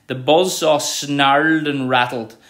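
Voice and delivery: slow, punchy sound-painting; slow expressive reading. Shown as a demonstration. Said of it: "you can hear the sound".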